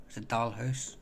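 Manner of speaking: Dalhousie offered as a rising question; tentative go at pronouncing Dalhousie; unsure pronunciation. Real, not acted. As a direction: ask whether Dalhousie is said this way. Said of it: "I don't know how to pronounce that".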